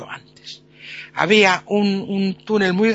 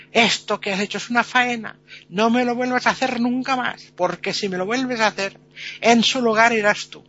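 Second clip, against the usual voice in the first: stern scolding; 3 semitones higher, 3 dB louder than usual. Retold or imitated. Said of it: "La muerte se enfadó".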